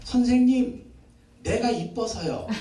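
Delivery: put-on slow, sweetly proud little girl; a preacher lightly voicing a little girl; little girl's voice. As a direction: say it like a small child who thinks she's pretty. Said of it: "전도사님 딸이 그러더래요".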